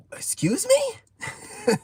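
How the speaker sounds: high, drawn-out stunned squeak; shocked. Retold or imitated. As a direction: act floored by the accusation. Shocked reaction to woman's remark.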